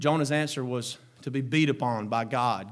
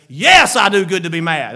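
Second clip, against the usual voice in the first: a hint of a defiant Jonah, louder; stubborn Jonah; 12 dB louder than usual. Jonah answering God, lightly voiced defiant. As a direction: mildly answer back, stubborn. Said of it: "the wrong way is".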